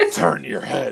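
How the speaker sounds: imitated rough, aggressive voice. Retelling simple things said at work after losing voice: imitating a rough aggressive voice. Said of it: "very aggressive 'cause it, it was real, real rough".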